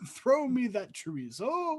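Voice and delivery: lightly voiced haughty queen in a yeehaw British accent. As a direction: bark an order in a bad Texan-British accent. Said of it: "That was an awful accent".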